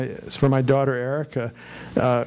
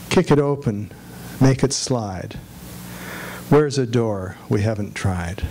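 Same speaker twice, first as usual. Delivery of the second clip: measured poem recital with pauses between lines; poetry reading. Acted. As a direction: read each short line deliberately, letting it fall at the end. Reads a poem aloud to an audience.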